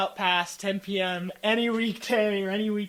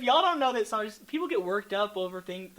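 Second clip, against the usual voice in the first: exasperated retort; 6 semitones higher, 6 dB louder than usual. Retold or imitated. Retorting to judgmental commenters.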